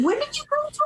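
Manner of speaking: high mock-incredulous advisor; retold advisor question. Advisor quizzing her at enrollment, lightly mocking. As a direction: ask it like a doubtful counselor. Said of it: "So first he goes".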